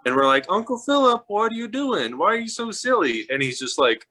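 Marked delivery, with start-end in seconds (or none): 0.5-3.3 put-on higher-pitched child asking an uncle; little kid's voice. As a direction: act out a puzzled small child, voice lifted. Children pleading with uncle in story.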